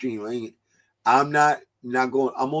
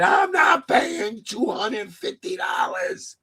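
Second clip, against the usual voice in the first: mock outraged yell; 5 semitones higher, slower than usual. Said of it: "That boy said".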